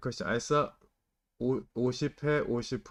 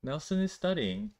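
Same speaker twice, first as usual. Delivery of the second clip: mild surprise; 5 semitones higher than usual. Shown as a demonstration. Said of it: "Like, you didn't expect".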